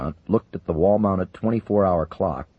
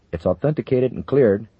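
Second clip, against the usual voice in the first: shaky voice; 6 semitones higher, 6 dB louder than usual. Acted. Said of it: "said in a shaky voice".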